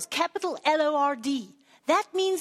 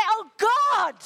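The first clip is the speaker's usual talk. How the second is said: put-on emotional like a child; 5 semitones higher, 4 dB louder than usual. Shown as a demonstration. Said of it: "and be emotional".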